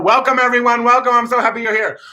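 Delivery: high, loud showy greeting; gushing welcome. Acted. Kid performer greeting the stands mid-run, gushing. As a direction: greet the crowd high, like a star arriving. Acted greeting to crowd while running.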